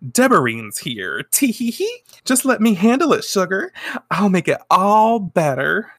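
high-pitched, cutesy and coaxing; sugary chocolate lady. Retold or imitated. Chocolate lady cooing to her boss, sugary.

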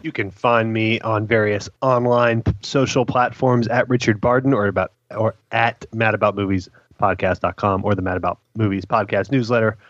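strained voice, fighting a cough; choking on a drink. Real, not acted. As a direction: push through a choking fit. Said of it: "I'm having a choking fit with some, some water".

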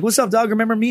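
high-pitched retold taunt; mock-friendly greeting. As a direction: sing out a needling hello to an old foe.

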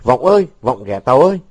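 straining shout. A narrator's reading. Côn cupping his hands to call Vọng, straining shout. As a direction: holler for a missing friend. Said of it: "gân cổ gọi".

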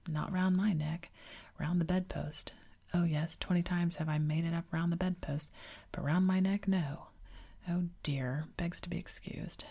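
mock him with hushed sarcasm; sarcastic husband fussing over his tie, whispered; dangerously sarcastic. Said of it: "He became dangerously sarcastic".

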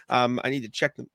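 talking with hiccups; hiccuping between words. Real, not acted. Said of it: "excuse me, got the hiccups".

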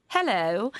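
lightly imitated proper Italian speaker; a simple, proper hello in imitation; Matteo Lane. Comedian imitating a fellow comic's beautiful Italian, lightly imitated. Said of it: "he sounds like".

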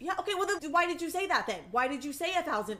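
indignant rant. Real, not acted. Ranting at villain.

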